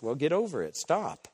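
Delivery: normal talking voice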